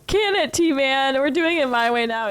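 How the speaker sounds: punchy, slowed-down mock order; gruff retort. Shown as a demonstration. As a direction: bark it like a bossy boss. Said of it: "I'm gonna say it that way".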